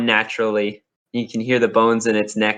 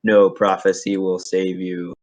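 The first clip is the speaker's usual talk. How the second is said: booming voice. Acted. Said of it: "You hear this booming voice in your mind".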